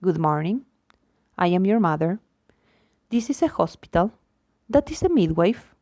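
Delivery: flat, factual statement to a newborn; matter-of-fact. Shown as a demonstration. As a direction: state the facts like a form. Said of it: "in a matter-of-fact tone of voice".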